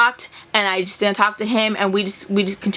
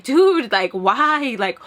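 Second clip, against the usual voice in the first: tearful; much slower than usual. Real, not acted. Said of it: "And if I cry now".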